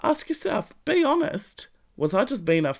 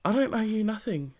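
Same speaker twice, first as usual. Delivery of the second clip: whisper. Real, not acted. Defiant line after long pause.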